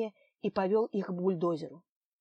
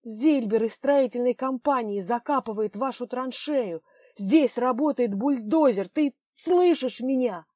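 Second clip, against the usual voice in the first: urgent insistence; 4 semitones higher, 7 dB louder than usual. Acted. Nadezhda argues with Lev urgently.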